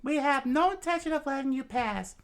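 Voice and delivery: high, loud defiant crowd shout; crowd roar. Acted. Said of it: "the crowd screamed".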